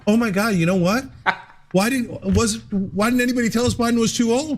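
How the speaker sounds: lightly voiced pundit amazement; mock shocked host. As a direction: play the host suddenly discovering the obvious. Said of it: "The View is like".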